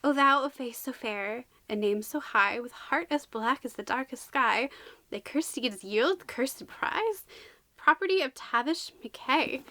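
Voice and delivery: put-on measured recital of an old curse; verse reading. Reader reciting the book's curse to viewers, measured verse. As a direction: read it as solemn rhyme.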